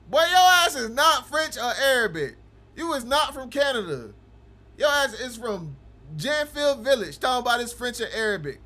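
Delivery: loud, incredulous roasting of the chatter; mocking disbelief. Real, not acted. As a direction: call the bluff, half laughing. Streamer mocks chatter's French claim.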